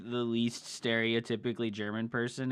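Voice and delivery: normal talking voice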